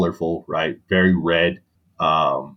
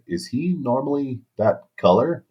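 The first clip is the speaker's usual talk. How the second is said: higher, thin doctor voice asking the wife; mock puzzled doctor, pitched up; imitating the doctor; 6 semitones higher than usual. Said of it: "was like".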